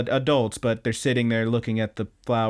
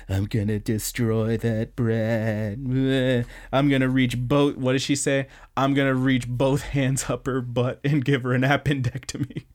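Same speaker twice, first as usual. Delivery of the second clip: put-on angry girl quote. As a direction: growl the threat like a furious schoolgirl. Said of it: "She's like".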